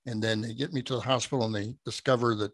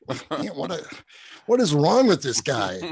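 puzzled; 4 semitones higher, 4 dB louder than usual. Retold or imitated. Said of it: "He's like".

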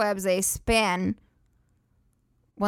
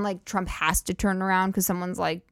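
ordinary talk

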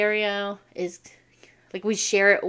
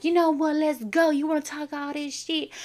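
retold challenge to fight; 6 semitones higher than usual. Acted quarrel, bully challenges.

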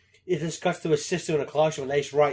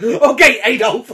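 mock retort; 6 semitones higher, 10 dB louder than usual. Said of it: "I was like".

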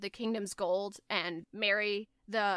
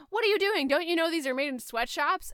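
high, louder play-acted scolding; pitched-up pretend outrage at a servant; mock indignant princess; 7 semitones higher, 4 dB louder, faster than usual. Retelling princess scolding her lady in waiting, mock indignant.

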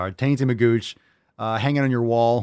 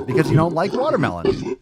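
ordinary talk

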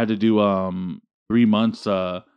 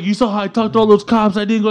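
mocking bragging friend; 7 semitones higher than usual.

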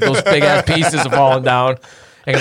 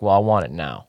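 entitled whine; 9 semitones lower, 6 dB quieter than usual. Retold or imitated. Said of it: "it's kinda like".

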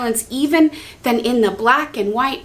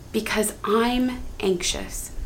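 soft prayer; 5 dB quieter, slower than usual. Shown as a demonstration. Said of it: "into the relating".

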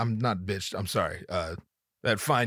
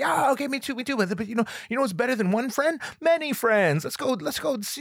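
nervous coaxing; 10 semitones higher than usual. Retold or imitated.

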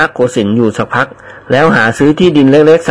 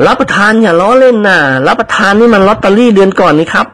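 higher, anxious servant voice; panicked pleading; 7 semitones higher than usual. Acted. Servant begs friends not to joke about ticket, flustered.

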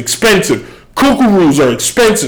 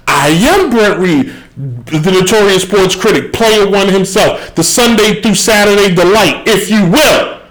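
grand self-introduction; 4 semitones higher than usual. Acted. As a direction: introduce yourself like the star attraction.

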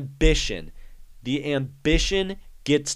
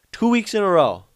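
incredulous; 8 semitones higher, 7 dB louder, faster than usual. Real, not acted. Amazed repeat of phrase.

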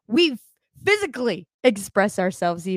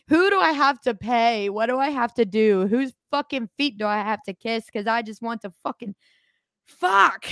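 desperate, mock-begging rant; exasperated pleading. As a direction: beg the universe, fed up.

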